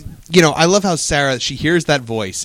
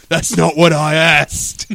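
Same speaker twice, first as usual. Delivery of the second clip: pirate voice; much slower than usual. Retold or imitated. Pirate voice retort.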